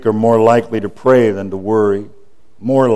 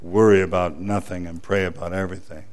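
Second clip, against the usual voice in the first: softer, lower, tender promise; gentle reassurance; 7 semitones lower, 8 dB quieter than usual. Retold or imitated. God answering the terrified cancer patient, soft and tender. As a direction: soothe a frightened person. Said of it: "And he says".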